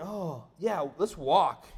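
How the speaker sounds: unenthused echo of a cheery suggestion; sarcastic inner reply. Retold or imitated. Weary dad thinking of all the bags, sarcastic. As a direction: agree with mock approval, without the chirp. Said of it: "So I'm thinking".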